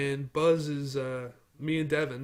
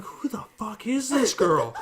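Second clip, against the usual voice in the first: higher, louder, slowed and cracking up; laughing disbelief; 7 semitones higher, 6 dB louder, slower than usual. Retold or imitated. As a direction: ask it while losing it laughing. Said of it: "I look at Devin like".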